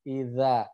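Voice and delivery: Idza with dz as a voiced th; tongue-tip dhal. Shown as a demonstration. Teacher drills the letter zal, tongue-tip sound. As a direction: put the tongue tip to the upper teeth for Idza. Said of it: "makroznya ujung lidah bertemu".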